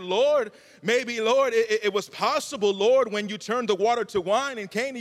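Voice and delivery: earnest preacher pleading as Jesus; impassioned appeal. Acted. Preacher voicing Jesus reminding God of Cana, impassioned appeal.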